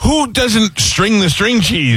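high, drawn-out mock outrage; appalled sister. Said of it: "she looks at me and she goes".

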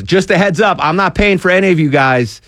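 mock cheery heads-up to the wedding guests, high-pitched and laughing; imitating Package Man. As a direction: pitch it up high like the groom breaking the news, then crack into a laugh. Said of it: "And he goes".

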